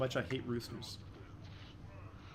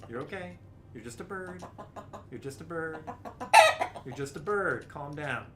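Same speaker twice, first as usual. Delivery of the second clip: reassuring. Real, not acted. Calming the frightened bird.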